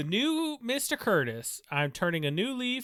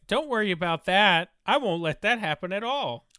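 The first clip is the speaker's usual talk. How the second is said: bad voice acting; 4 dB louder than usual. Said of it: "sounds like bad voice acting".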